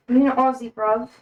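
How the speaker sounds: light mock British accent; playful, roughly British-sounding question; attempted British accent. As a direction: try out a casual British accent. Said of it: "I feel like that was a British accent".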